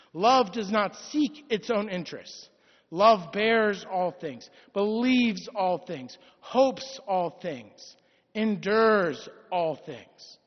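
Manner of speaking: slow, weighty scripture reading, each phrase apart; slow solemn recitation. Acted. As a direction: lean on each line of the verse.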